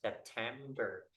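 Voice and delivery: "September" said slowly, stress on "tem"; stress demo. Shown as a demonstration. Teacher showing where English stress falls. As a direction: lean on the second syllable of "September". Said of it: "like I have word".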